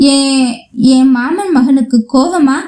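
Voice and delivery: understated quaver of held-back tears; quavering, choked-up voice. Acted. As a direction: say it with a touch of a choke. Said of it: "இனியவளின் தழுதழுத்த குரலில்".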